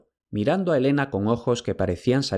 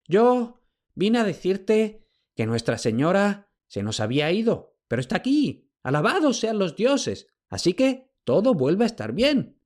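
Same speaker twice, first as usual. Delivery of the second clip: put-on flustered old servant; stammering old slave; 10 semitones higher than usual. A narrator's reading. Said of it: "tartamudeó Jantias".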